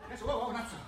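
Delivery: normal talking voice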